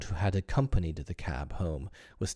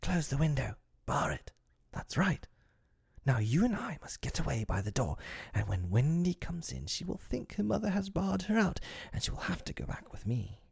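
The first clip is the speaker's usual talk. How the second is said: higher, brisk urgent scheming voice; scheming boy Peter; 9 semitones higher than usual. Acted. Peter telling Tink to bar the window. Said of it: "Peter's first words tell all".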